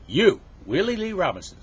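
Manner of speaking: high, loud summons to a pupil; teacher calling out. Acted. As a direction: call the star pupil by name. Teacher calls on best student.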